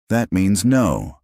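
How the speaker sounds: put-on slow, knowing child's verdict; sagely. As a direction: deliver it like wise old advice. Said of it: "Hana said sagely".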